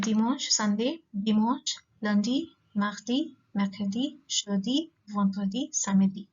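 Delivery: each day name read out with a rising end; teacher modeling the days of the week; French day names. Shown as a demonstration. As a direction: list the French weekdays like a drill. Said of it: "I'm giving them to you now".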